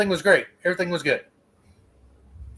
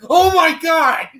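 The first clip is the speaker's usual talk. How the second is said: high, slow shocked shout; 12 semitones higher, 7 dB louder, slower than usual. Retold or imitated. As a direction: yell it out in alarm. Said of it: "It was just".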